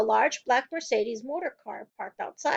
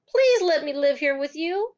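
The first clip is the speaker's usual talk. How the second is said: louder, higher pleading; heartfelt plea; begging; 4 semitones higher, 4 dB louder than usual. A narrator's reading. Child begging teacher.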